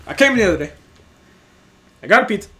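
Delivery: loud, halting customer voice; really slow. Retold or imitated. Customer complaining to the worker, really slow. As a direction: speak in chunks with long pauses. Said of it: "he starts speaking to me really slow".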